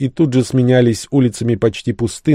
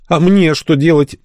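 high, slow, plaintive whine; whining; 8 semitones higher, 3 dB louder than usual. A narrator's reading. Пит pleading to be told what to do, whining. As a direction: whine it helplessly, stretched out and pitched up. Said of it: "изнывал Пит".

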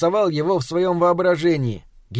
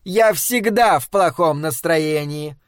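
barked retort; slower than usual. Acted. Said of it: "гаркнула она в ответ".

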